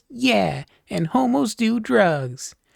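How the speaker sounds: put-on very high, drawn-out childlike voice. Telling a story, yelling out at someone being homophobic, little kid voice. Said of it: "in my best little kid voice".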